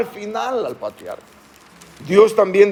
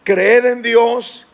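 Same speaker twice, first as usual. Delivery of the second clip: slow emphatic reading; 4 semitones higher, much slower than usual. Acted. Pastor reads verse slowly.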